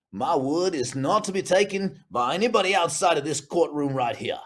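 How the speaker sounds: lightly put-on judge voice; a hint of grandstanding judge; judge accent. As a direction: hand down a ruling in a mock judge accent. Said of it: "that's a judge accent".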